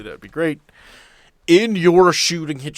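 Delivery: ordinary talk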